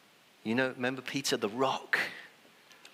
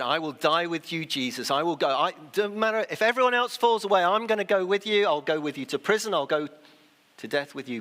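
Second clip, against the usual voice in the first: loud, high, fervent vow, faster; bold vow; 7 semitones higher, 6 dB louder, faster than usual. Acted. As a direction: boast it with all your heart. Peter's boast of loyalty.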